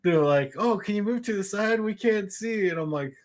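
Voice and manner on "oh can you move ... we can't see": raised pitch, pleading to see; higher-pitched quoted plea; lightly voiced complaining girls. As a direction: lightly mimic a short concertgoer's request. Voicing short girls at concert.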